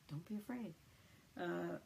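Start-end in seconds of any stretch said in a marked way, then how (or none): 0.1-0.7 softer, calm and gentle; quiet calming voice; calm reassurance. Retold or imitated. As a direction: say it gently to soothe them. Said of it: "And Jesus very calmly".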